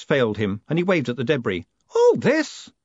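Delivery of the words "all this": put-on high, stunned old man's question; can't believe the mess; old George staring at the wrecked post office; dismayed disbelief. George waving at the ruins.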